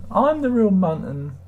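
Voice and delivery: hammed-up slow insistence. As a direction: stretch it out like a pompous herald. Repeats claim slower, higher.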